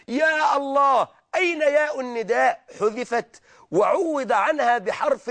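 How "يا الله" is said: calling out. Shown as a demonstration. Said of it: "نحن ننادي على ربنا".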